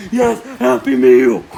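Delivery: loud happy cry; excited cheer. Acted. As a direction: cheer as the meal arrives. Kid gets meal.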